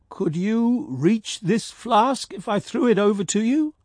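sudden. Acted. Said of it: "asked Ulrich suddenly".

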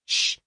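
loud, sharp "shh"; loud hushing hiss; loud shush. A narrator's reading. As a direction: shush them loudly. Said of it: "an equally loud".

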